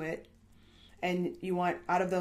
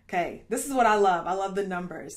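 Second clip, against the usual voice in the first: smiling voice; 4 dB louder than usual. Real, not acted. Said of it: "you can probably hear the smile in my voice".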